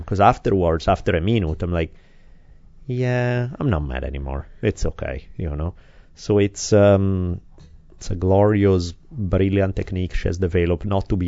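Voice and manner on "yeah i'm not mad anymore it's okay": low, soft, soothed voice; calmed down. Retold or imitated. Parent calmed after child's hug, quiet relief. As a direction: let the anger go, settling lower. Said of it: "it works like a charm".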